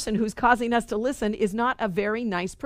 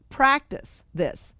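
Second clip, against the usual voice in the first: drawn out slowly, each word weighted; slow deliberate command; slow emphatic reading; 4 semitones higher, much slower than usual. Shown as a demonstration. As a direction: read it slowly like a solemn instruction. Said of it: "And it says".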